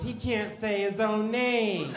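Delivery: slow, high, amused teacher voice; teacher murmuring to a colleague; teacher aside. Retold or imitated. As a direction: tell the other teacher in disbelief. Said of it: "and she goes".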